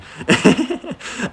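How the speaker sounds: high-pitched laugh; high burst of laughter. Real, not acted. Laughing to viewers at his own nostalgia, high and loud. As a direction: let a bright laugh burst out.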